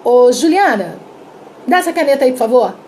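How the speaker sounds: bossy demand with a throwaway please; rude demand. Shown as a demonstration. Teacher rudely ordering Juliana to hand over the pen, curt and bossy. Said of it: "chega e pede assim".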